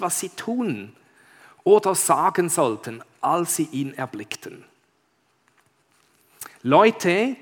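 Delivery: measured, expressive read-aloud; story narration. Acted. Pastor reads Narnia to the congregation, expressive storytelling. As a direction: read it out like a tale, leaning on key words.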